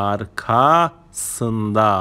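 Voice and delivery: "arkasında" in two slow parts, arka... sında; split for learners. Shown as a demonstration. Teacher showing learners the word for behind, "arkasında" split after arka.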